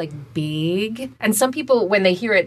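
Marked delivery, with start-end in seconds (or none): 0.3-1.1 "big" with a tight long A, like "baig"; tight monophthongal A. Shown as a demonstration. Voice coach showing Minnesotan bag, "big" with tight A. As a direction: say "big" as Minnesotan bag, vowel raised towards "beg". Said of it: "a tight monophthongal A".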